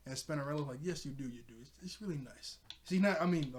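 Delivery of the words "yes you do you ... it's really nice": mildly sarcastic retold praise; understated, unintentionally dry approval; kinda sarcastic. Spinnerella praises Netossa's name, kinda sarcastically. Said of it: "I said it kinda sarcastically".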